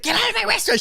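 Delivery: put-on very high, shrieking old Korean lady; shrill ajumma shout. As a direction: screech her out of the shop. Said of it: "She's like".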